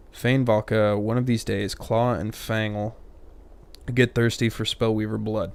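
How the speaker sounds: a hint of a gruff man voice on a woman; lightly voiced manly warrior woman; mild put-on man accent for a female fighter. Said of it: "I gave her a man accent".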